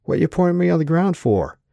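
loud, high surfer-dude complaint. A narrator's reading. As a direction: whine it like an affronted surfer. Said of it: "said the surfer dude voice".

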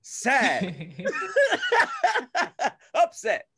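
high, laughing emotion labels; acted emotions. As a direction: act out each emotion label. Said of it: "Just be like".

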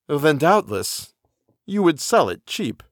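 slow, sly tempter; sly stranger voice. Acted. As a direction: draw the offer out like a devil's bargain. Stranger makes his offer.

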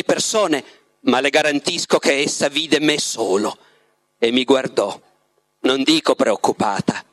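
measured literary narration with pauses; story narration. A narrator's reading. The Master recounts his love to Ivan, measured storytelling. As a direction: read the Master's tale unhurriedly, phrase by phrase. Reads the novel aloud, as the Master.

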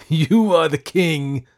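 slow, high, very loud cry; crazed proclamation; exultant cry. A narrator's reading. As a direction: cry out derisively, drawing it out. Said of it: "I cried".

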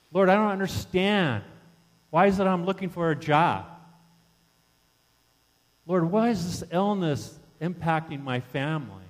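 pleading prayer, pitched a little up; grieving plea. Acted. Believer asking the Lord why they suffer, grieving plea. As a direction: plead with the Lord, pausing between questions. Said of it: "That grief of that? Can you relate".

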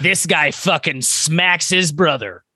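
slow dramatic trailer narration; movie trailer voice. Acted. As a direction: announce it like a blockbuster teaser. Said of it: "trailer voice there".

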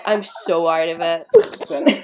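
slow, dazed and drawn out; woozy and dragging; spaced-out drawl. Real, not acted. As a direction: let the words sag like you're half asleep.

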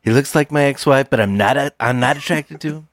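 fast, flustered guy voice; confused man. Acted. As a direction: rattle it off, baffled.

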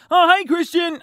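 high-pitched mock friendly hello; mimicked cheery greeting. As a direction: imitate a colleague's oblivious greeting in a high voice. Acting Ben's awkward greeting.

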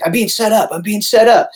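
mock panic. Dale voiced, panicking in story.

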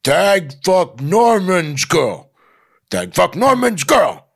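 high, loud caveman bellow; caveman Steve. Acted. Caveman taunting snobby Norman, loud and primitive. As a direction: bellow it like a dim Australopithecus. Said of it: "much like an Australopithecus".

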